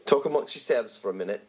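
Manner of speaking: Southern speaker's attempted British accent; British accent by a Southerner. Co-host filling time for the show, in a dodgy British accent. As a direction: put on an amateur British accent, mistakable for Australian. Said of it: "That is a Southern person doing a British accent".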